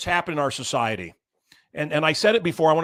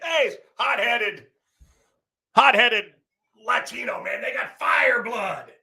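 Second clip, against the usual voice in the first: mock hot-headed Latino; 7 semitones higher, slower than usual. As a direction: ham up the excitable stereotype. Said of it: "Latino guy, a guy out of Spain gets excited".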